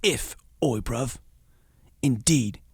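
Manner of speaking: conspiratorial whisper in a put-on London accent; a hammed-up secretive whisper; mock whisper. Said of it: "Bencher's quote, secretive".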